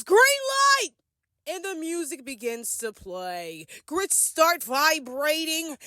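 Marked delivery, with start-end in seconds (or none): 0.0-0.9 high, drawn-out mock yell; imitated game-host yell. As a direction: call it out high, like starting a game. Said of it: "Nick yells".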